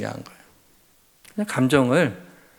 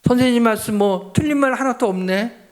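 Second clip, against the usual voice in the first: scolding mother; 8 semitones higher than usual. Retold or imitated. Mother scolding her son.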